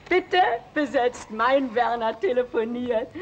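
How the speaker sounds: high, slow put-on operator voice; mother mimics a busy signal announcement; mock operator. Mother imitates busy-line operator.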